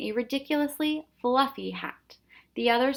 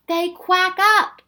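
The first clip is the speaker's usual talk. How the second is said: chuckling; 11 semitones higher, 11 dB louder, much slower than usual. A narrator's reading. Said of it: "the professor chuckled".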